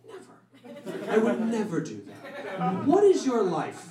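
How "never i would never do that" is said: gasping, hushed mock horror; gasp, then refuse softly as if scandalised; appalled refusal. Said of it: "some people in here who are like".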